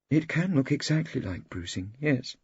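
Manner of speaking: a hint of a genteel woman doctor; lady doctor witness. A narrator's reading. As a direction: answer helpfully as the lady doctor. Pale lady doctor witness answers.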